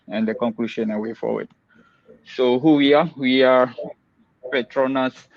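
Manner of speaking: muffled behind a mask; talking through a mask, slightly muffled; through a face mask. Real, not acted. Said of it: "please excuse my mask".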